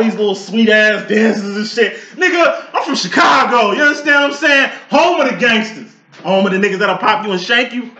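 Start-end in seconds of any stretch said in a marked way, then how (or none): 2.2-6.0 proud shout. Real, not acted. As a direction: shout your city with pride.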